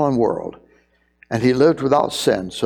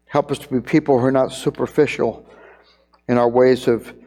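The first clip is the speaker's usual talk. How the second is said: prayer. Acted. Pastor praying with the church after the sermon, earnest prayer voice.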